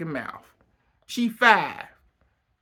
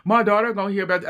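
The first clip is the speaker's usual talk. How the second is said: mock crying husband; 3 semitones higher, much faster than usual. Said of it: "he started crying".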